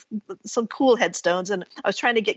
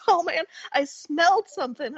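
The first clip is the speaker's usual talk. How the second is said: a hint of New Orleans, pitched higher; New Orleans accent; 5 semitones higher than usual. Worker tells woman what he noticed, lightly imitated New Orleans accent. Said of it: "New Orleans accent".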